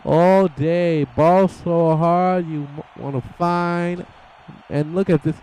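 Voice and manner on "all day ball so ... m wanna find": slow, swaggering brag; cocky drawl. Retold or imitated. Commentator voicing the wrestler, slow cocky brag. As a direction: act unbothered and cocky, slowly. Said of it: "M V P like".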